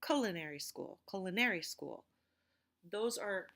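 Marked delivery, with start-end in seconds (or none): 0.0-2.0 culinary with the stress put on a wrong syllable, loudly; misplaced stress. Shown as a demonstration. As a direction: demonstrate culinary mis-stressed. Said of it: "and I also didn't say".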